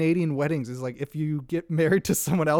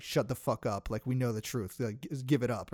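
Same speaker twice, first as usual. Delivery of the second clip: mock stern hush; 4 semitones lower, 8 dB quieter than usual. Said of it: "basically just telling him".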